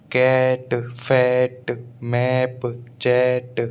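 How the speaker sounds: कैट, फैट, मैप, चैट with an open "ae" vowel. Shown as a demonstration. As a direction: hold the "ae" in कैट, फैट, मैप, चैट, one word at a time. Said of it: "अब ये जो ए".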